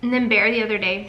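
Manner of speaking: talking through a mouthful of popcorn; mouth full. Real, not acted. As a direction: speak around food in the mouth. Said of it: "sorry, I'm talking with my mouth full".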